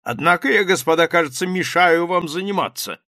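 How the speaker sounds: high, loud bluff exclamation; exclaiming captain. A narrator's reading. Captain exclaims to the journalists, loud and high. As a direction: blurt it out like a brash officer. Rybnikov apologizes to the writers.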